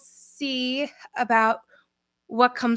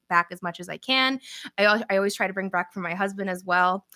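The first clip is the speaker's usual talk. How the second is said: ordinary talk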